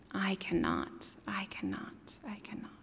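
very soft, fading to nothing; muttering. A narrator's reading. Old engine rumbling off, fading mutter. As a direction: mutter it as he rolls away. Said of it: "still muttering".

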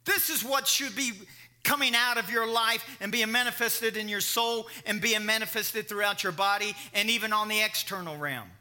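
emphatic preaching. Real, not acted. Preacher applying Proverbs to his listeners, forceful preaching. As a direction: drive the point home to the congregation.

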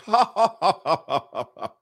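fake, high staccato ha-ha; mock forced laugh through a smile; marital laugh of doom. Wife covering for husband's joke, fake doom laugh. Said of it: "The marital laugh of doom".

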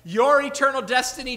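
loud, high, emphatic declaration; ringing pulpit pronouncement; bold proclamation. Acted. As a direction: proclaim it with full authority. Preacher proclaiming Jesus's bold claim.

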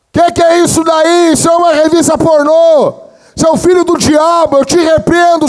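high, booming denunciation; loud, scandalized mock rant; retold outraged shouting. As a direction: shout it out, stretching each accusation. Retold outraged colleague shouting accusations.

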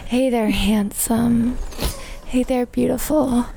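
brassy gum smacking floozy. Acted. Flirty floozy greeting.

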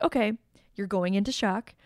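level, unhurried reassurance; very calm. Retold or imitated. Imitating the hero telling shocked June to stay here, very calm. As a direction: lay out the plan unruffled. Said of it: "he's very calmly".

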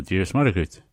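"Dios Mother Gut" said as Irish "Dia is Muire duit", stress on "Mother"; Irish reply. Shown as a demonstration. Teacher showing a variant of the reply, careful pronunciation. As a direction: pronounce "Dios Mother Gut" clearly, leaning on "Mother".

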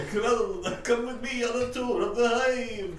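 bee tour guide. Acted.

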